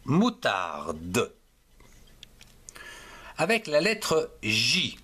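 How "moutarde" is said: "moutarde" drawn out to a sounded final de; "moutarde" lengthened, lower, rising on the last syllable; syllable-by-syllable model. Shown as a demonstration. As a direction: spread "moutarde" into its syllables for learners. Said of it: "pour faire".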